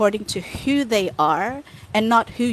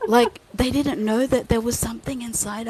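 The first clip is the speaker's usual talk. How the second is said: mock-horrified, higher-pitched gasp of disbelief; horrified retelling; 4 semitones higher than usual. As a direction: relive the shock, half laughing. Retelling own horrified reaction to egg. (kunwaring gulat na gulat)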